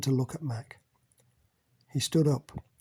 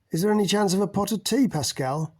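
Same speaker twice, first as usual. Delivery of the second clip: calling out; 6 semitones higher than usual. Acted. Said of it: "Mac called out".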